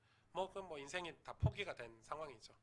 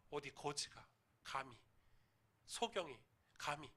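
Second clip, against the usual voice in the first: contemptuous sneer; 4 dB quieter than usual. Retold or imitated. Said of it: "사람들이 소경 보고 뭐라 그랬겠어요".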